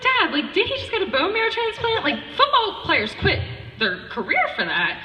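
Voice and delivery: high, loud, amused disbelief; high laughing disbelief. Retold or imitated. Sister asking dad about her brother, laughing disbelief. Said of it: "And I was like".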